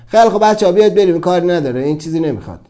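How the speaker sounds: quick, loud rallying of the others; mock dismissive call. The mind calling its friends away from him, loud and quick.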